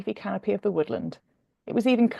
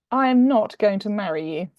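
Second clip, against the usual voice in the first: stiffly; 3 dB louder than usual. Acted. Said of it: "he said stiffly".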